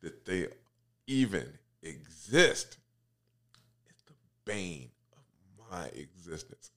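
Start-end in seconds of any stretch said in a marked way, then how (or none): 3.9-6.7 whispering. Real, not acted. Ranting about Crocs.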